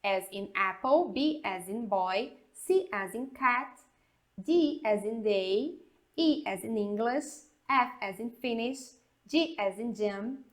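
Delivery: teacher spelling the alphabet for the class; English spelling drill. Shown as a demonstration. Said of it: "vamos dar uma soletrada aqui".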